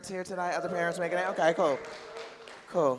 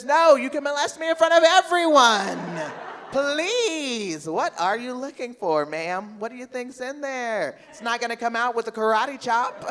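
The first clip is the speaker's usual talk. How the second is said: high, loud laughing protest; mock defiant shout; 5 semitones higher, 7 dB louder than usual. Comic mock-shouting back at the TSA agent, high and loud.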